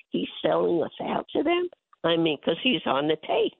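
high-pitched indignant tirade, pushing every phrase up; outraged rant. Real, not acted. Mother ranting to son's radio audience about the Bidens, high and outraged. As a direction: fire off the outrage like she can't believe it.

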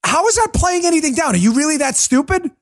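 high, fast, scornful question; exasperated. Real, not acted. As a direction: ask it in scornful disbelief. Exasperated rant at critics.

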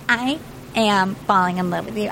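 low, measured declaration of love; retold love confession. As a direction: confess it earnestly, imitating her. First take of retold confession.

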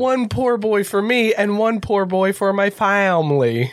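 slow, lightly drawled Southern order; a hint of Southern drawl for the family order; mock Southern accent. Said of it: "Brian Kelly's Southern accent".

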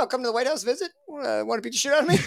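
cocky Roosevelt. Retold or imitated. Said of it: "He's like".

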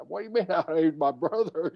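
retold indignant comeback; indignant retort. Retort to fans questioning friendship.

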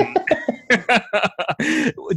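high-pitched burst of laughter; laughing. Real, not acted. Co-hosts joke about a player playing badly, laughing. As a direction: crack up in a run of high laughs.

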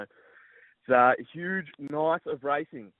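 throat catching from a swallowed bug; just swallowed a bug. Real, not acted. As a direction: talk through a bug in the throat. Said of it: "I just swallowed a bug".

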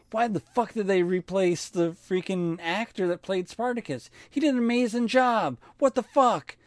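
high-pitched retold outrage; pissed off. Retelling his anger at a recast actor, pissed off. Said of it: "I got really fucking pissed off".

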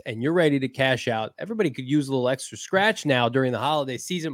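upbeat sponsor read. Acted. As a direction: sell it like a radio spot. Sponsor read for Underdog Fantasy.

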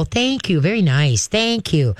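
calm, gentle thank you to the dog; calm praise. Shown as a demonstration. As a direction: praise her calmly once she backs down. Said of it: "you just very calmly go".

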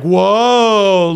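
mock drawn-out whoa; fake being thrown. Dad pretending little son pushed him away, mock alarm. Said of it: "I have to fake".

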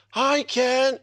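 high called-out greeting from a rooftop; retold yell. Friend on the rooftop calling down to him, high yell. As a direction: call it up high like someone yelling down at you.

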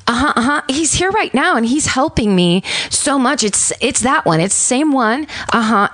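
lightly voiced pleasant caller; super pleasant voice. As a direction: pleasant tone to hide a warning. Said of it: "telling her in this, like, super pleasant voice".

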